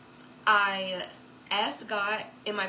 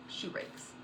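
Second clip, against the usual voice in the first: whispered in disbelief; hushed disbelief as the heel snaps; stunned whisper; 11 dB quieter than usual. Real, not acted. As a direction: whisper it, crushed. Dismay at broken heel.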